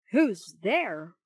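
loud startled call into the room; shouted. A narrator's reading. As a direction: call out to an unseen voice. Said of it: "shouted Mister Cherry".

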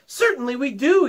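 mock class shout, high; children yelling together. A narrator's reading. Students answer their teacher together, a mild high yell. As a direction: cry it out as a whole class. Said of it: "yelled one and all".

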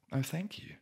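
bright, high-pitched thanks; high grateful voice. Acted. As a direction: lift way up, delighted. Woman thanks the witch.

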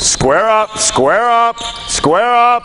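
repeated high call across the court, pitch up. Real, not acted. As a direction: call it out to the players on the floor. Coach calling out to players.

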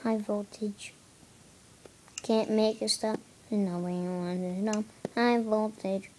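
flat robotic singing voice. Pretend. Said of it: "I'm supposed to sound like a robot".

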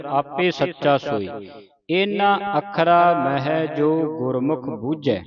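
slow, drawn-out measured chant; slow scripture recitation. Shown as a demonstration. Teacher reciting scripture slowly for a student. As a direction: recite slowly, pausing at each stop.

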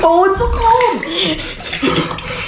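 high, slow laughing shiver. Real, not acted. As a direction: laugh through the cold. Laughing in ice water.

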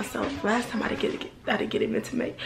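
tripping over words, stuttering. Real, not acted. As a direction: stumble and restart the words. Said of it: "I'm stuttering".

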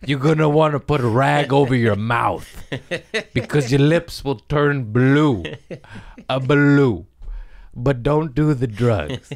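loud, high, laughing warning; cracking up mid-lecture; laughing PSA. Acted.

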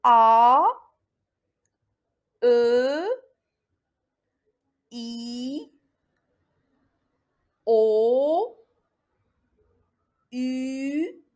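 "A, E, I, O, U" each held long and apart; vowel sounds repeated. Shown as a demonstration. Teacher repeating the vowel sounds for learners, each drawn out separately. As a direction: sustain each of "A, E, I, O, U", gently rising, pausing between. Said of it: "je répète les sons".

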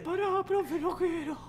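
put-on high, soft reluctant kid; kid pupil. Shy kid refusing the teacher, high soft voice. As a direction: plead small and high as the kid. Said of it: "yo soy el pibe".

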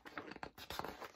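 soft drawn-in breath; suspenseful gasp. A narrator's reading. Suspense at end of countdown.

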